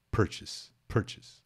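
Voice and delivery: "purchase" whispered twice, PER-chis; whispered drill. Shown as a demonstration. Teacher has students swear to say "purchase" right. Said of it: "Jure solenemente".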